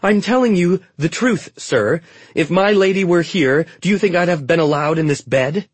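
high, loud, pleading handmaiden; rising pitch. A narrator's reading. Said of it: "Trina's voice rose in pitch".

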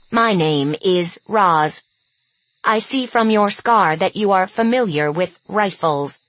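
stern threat. Acted. Robot bluffing wolves with rifle.

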